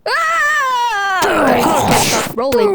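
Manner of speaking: mock panic shout; playful yell. Player rolling out of control, yelling in fun. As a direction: holler while tumbling.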